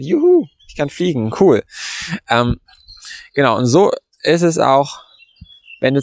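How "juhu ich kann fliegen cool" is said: hoch und jubelnd, als ob man gerade abhebt; begeistertes Juhu. Retold or imitated. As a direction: freu dich hörbar wie ein Kind. Freude über das gelungene Fliegen. (ausgelassen jubelnd, spielerisch)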